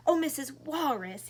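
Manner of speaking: high, loud little bird's plea; little bird crying out. Acted. Lost little bird crying to the giraffe, high and loud. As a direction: call out like a lost chick. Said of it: "he cried".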